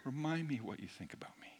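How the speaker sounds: quick whispered prayer from the heart. Shown as a demonstration. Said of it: "From here".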